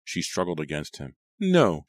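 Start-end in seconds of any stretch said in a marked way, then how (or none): 1.4-1.8 high, louder frantic no; crying out. A narrator's reading. Mother struggling against her son, high frantic cry. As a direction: resist with all she has. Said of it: "she cried".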